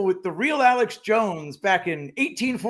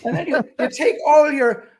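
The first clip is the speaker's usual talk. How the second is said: put-on higher, laughing drunk-Irish demo; hint of a tipsy Irishman; 6 semitones higher than usual. Shown as a demonstration. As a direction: show how a rowdy drunk sounds. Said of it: "act as if you've had".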